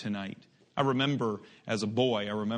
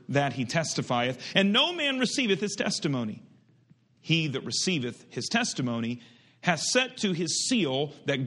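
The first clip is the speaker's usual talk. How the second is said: raised, ringing pulpit reading of scripture; 3 semitones higher than usual. Acted. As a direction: proclaim the verses to the congregation. Continues reading scripture aloud.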